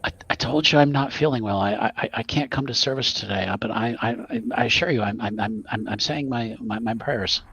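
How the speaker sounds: a nervous frail nun stammering. Acted. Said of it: "this frail voice saying".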